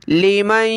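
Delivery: लिमन with the न hummed through the nose, not pronounced; tajweed ghunna demo; nasal ghunna. Shown as a demonstration. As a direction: blend न into म with a nasal hum. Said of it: "नाक में आवाज़ पैदा करनी है".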